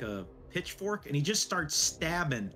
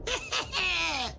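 higher villain voice, pleased with the haul; a smug villain congratulating his crew; gloating villain; 8 semitones higher than usual. Acted. Villain praising his boys with a higher gloating voice.

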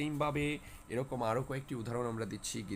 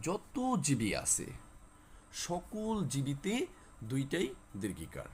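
slow emphatic rule; slower than usual. Shown as a demonstration. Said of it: "teacher stressing the rule".

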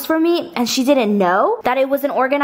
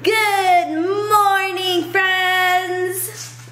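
cheery greeting; 8 semitones higher, much slower than usual. Real, not acted. Vlog greeting to viewers.

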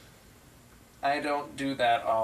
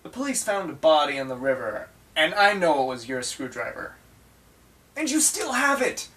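heated accusation; 3 semitones higher, 6 dB louder than usual. Acted. Confronting his double over the screwdriver, loud mock outrage. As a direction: confront a killer, exploding at the end. Acted improv accusation of murder.

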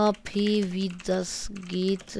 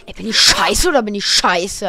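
loud frustrated outburst; yelling across the room; 9 dB louder than usual. Real, not acted. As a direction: yell at yourself. Frustrated yell in game.

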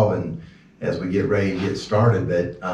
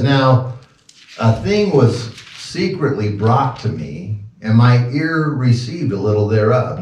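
slow, raised reading voice; scripture reading; 3 semitones higher than usual. Acted. Preacher reading Job aloud to the church, slow and solemn. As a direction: read the verse with weight.

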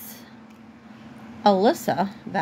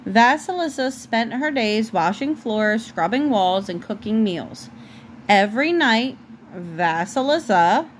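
measured storybook reading, clearly phrased; story narration. A narrator's reading. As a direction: read a fairy tale aloud to a child.

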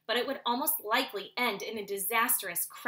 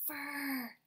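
whispering; 4 semitones higher, 6 dB quieter than usual. Acted. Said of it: "whispered Soren".

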